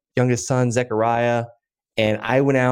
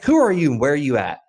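imitated Texan caller, higher-pitched; Texan accent; 5 semitones higher than usual. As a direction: quote a caller with a light Texan lilt. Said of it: "like, nice Texan accent".

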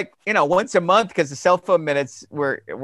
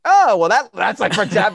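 mock music nerd; 4 semitones higher, 6 dB louder than usual.

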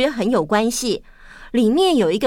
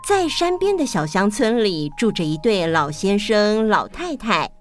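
fireside storytelling. A narrator's reading. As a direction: tell it like a bedtime tale. Starts story narration.

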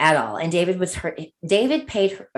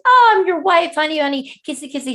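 cutesy wife; 10 semitones higher, 7 dB louder than usual. Retold or imitated. Acting her cutesy self as wife.

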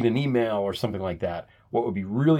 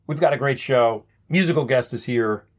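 TV host hype. Retold or imitated. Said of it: "It's always".

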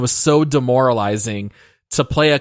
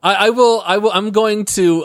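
laughing; 7 semitones higher than usual. Real, not acted. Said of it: "laugh at my own joke here".

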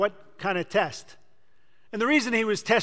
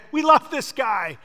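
toasting friends; 4 semitones higher, 3 dB louder than usual. Retold or imitated. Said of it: "raise a glass to toast him and say".

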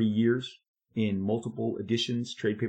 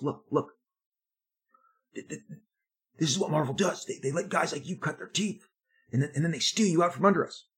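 softer tone; 5 semitones higher, faster than usual. Retold or imitated. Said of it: "his demeanor changes".

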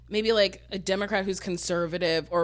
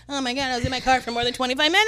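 exasperated; 4 semitones higher, 6 dB louder, faster than usual. Retold or imitated. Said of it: "And I was like".

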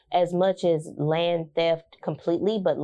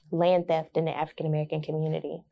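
news reporter voice; faster than usual. Acted. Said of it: "like, a news reporter voice".

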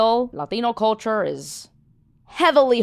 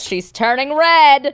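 teasing callout; 5 semitones higher, 7 dB louder, slower than usual. Real, not acted. Teasing her flushed co-host.

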